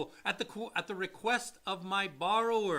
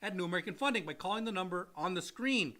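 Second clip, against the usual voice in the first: commercial read. Acted. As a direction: sell it like a radio spot. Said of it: "Time for commercial".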